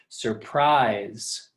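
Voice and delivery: "surprise" with the voice lifting on "-prise"; stress on second syllable. Shown as a demonstration. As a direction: lean on the end of "surprise". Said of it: "my voice goes up at the end".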